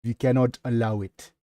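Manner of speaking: lightly attempted Russian accent; tentative Russian-accented reading. Shown as a demonstration. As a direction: read it with a hint of a Russian accent. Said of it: "read it in the Russian accent".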